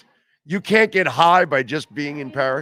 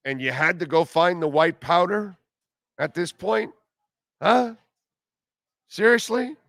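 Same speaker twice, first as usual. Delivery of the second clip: escalating comedy rant; 5 semitones higher than usual. Real, not acted. Ranting at the athlete.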